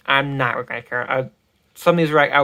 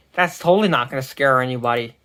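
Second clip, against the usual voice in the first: dry sarcasm in a near-usual voice; sarcastic. Real, not acted. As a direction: say it as obvious sarcasm.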